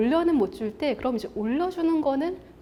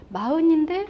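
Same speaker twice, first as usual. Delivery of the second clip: raised, rising note of surprise; higher pitch, lifting at the end; impressed surprise; 4 semitones higher, 4 dB louder than usual. Acted. Speaker discovers the forty-year-old is successful, mildly surprised.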